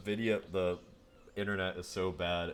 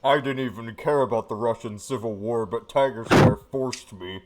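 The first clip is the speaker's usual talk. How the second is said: mock victim outcry; 3 semitones higher, 13 dB louder than usual. Mock victim testimony, shouting.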